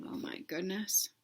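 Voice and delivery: soft, breathy little gasp of wonder; mock amazed whisper. Teacher reacting to the story for kids, mock amazed whisper. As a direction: hush it like a shared secret.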